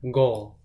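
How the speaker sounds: goal said slowly and weighted, falling; stress on goal. Shown as a demonstration. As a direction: land goal as the big moment. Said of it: "goal is being emphasized".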